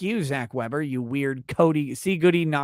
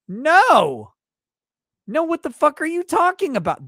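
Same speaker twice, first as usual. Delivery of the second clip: angry husband yell; 11 semitones higher, 6 dB louder than usual. Retold or imitated. Husband voiced refusing.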